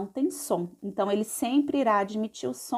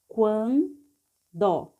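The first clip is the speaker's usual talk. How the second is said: "quando" split slowly as quan, do; measured teacher's reading of "quando"; syllable by syllable. Shown as a demonstration. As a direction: sound out "quando" with a gap between syllables. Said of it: "vamos ler passo a passo".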